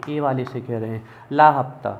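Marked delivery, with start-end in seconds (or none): 1.3-1.9 a lightly played thug barking for protection money, louder; mock gangster, demanding the weekly cut; goon's demand. Teacher voicing goons demanding money from the boy, mock-tough. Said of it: "ये कह रहे हैं इस लड़के से".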